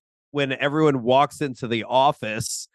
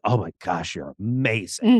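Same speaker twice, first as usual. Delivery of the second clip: lower, hushed mock awe; mock fawning; 5 semitones lower than usual. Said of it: "everyone is just like".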